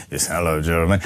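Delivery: very low, put-on sick-sounding voice. Breakfast show host demonstrates calling in sick to work, fake sick voice. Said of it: "Your best sick voice".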